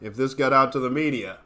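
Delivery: a hint of a mob boss leaning on someone; lightly voiced gangster menace; mock mafia threat. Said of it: "Those are the mafia tactic".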